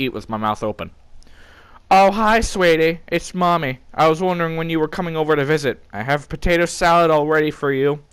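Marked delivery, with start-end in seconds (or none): 1.9-8.0 high, sweet mommy voice. Acted. Mom on the phone to her son, high and sweet. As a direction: coo like a doting mother. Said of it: "That's me, Mom".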